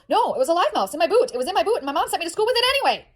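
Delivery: put-on high, rushed little-kid blurting; indignant child. Daughter to nurse about the mouse bite, indignant. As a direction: tattle on mom like a small girl.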